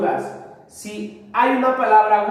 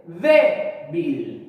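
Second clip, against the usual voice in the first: débil split in two, DÉ held and bil dropping; stress on DÉ; 4 semitones lower than usual. Shown as a demonstration. Teacher showing where the voice's force falls, débil stressed on DÉ. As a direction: sound out débil as DÉ, then a lower bil. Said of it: "estaba en la sílaba D".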